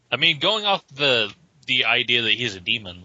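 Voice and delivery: ordinary delivery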